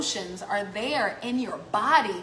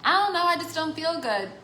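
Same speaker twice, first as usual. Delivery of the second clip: whiny patient; 6 semitones higher than usual. Retold or imitated. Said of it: "just be like".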